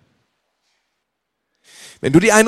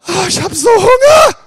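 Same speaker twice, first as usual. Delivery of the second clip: high, louder mock whine about hunger; whiny hungry faster; 11 semitones higher, 6 dB louder than usual. Faster mocking his own hunger, hammed-up whine. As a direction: ham up a pitiful whinge. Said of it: "dann kommt schon nach zwei Stunden der Gedanke".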